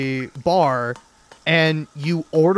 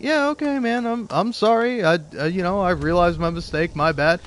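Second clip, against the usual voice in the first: meek apology; 2 semitones higher than usual. Retold or imitated. Apologizing to bartender, retold.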